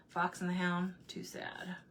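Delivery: hushed, almost whispered. Real, not acted. Sighing to viewers about a sad movie, hushed. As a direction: drop to a hush over the sad film.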